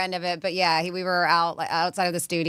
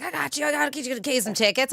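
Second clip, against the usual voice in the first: high, cocky imitation; mocking boast; 6 semitones higher than usual. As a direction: puff it up like a big promise. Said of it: "He's like".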